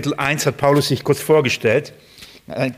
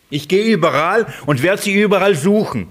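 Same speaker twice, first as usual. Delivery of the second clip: put-on zealous young Paul; 6 semitones higher, 3 dB louder than usual. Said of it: "Das ist Paulus gewesen".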